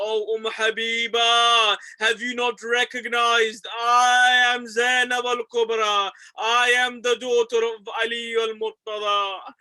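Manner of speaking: loud, slow, ringing declaration of who she is; Zainab's proclaiming cry. Acted. Zainab unveils herself to Umm Habiba, loud and slow. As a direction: cry it out so the whole bazaar hears.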